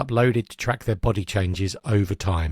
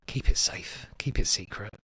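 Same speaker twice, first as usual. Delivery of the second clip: hushed warning; 4 dB quieter than usual. Acted. Host to listeners on businesses holding personal data, hushed warning. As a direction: say it softly, like guarding a secret. Quoting a film-like catchphrase.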